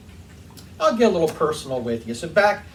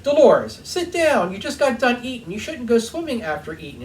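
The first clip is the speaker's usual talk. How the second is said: mock-stern husband telling her to sit; imitating father-in-law; 8 semitones higher than usual. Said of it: "He was like".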